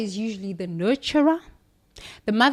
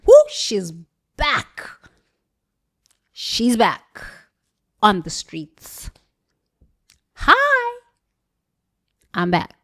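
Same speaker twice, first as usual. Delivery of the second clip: excited whoop; 5 dB louder, slower than usual. Retold or imitated. Announcing her night out.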